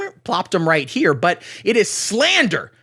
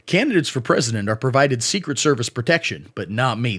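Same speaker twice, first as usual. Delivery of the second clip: low, strained and raspy; RFK Jr. impression; 6 semitones lower than usual. Comedian continuing the candidate's tweet in his low raspy voice. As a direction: croak it out low like a damaged throat. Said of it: "perfect impression of his voice".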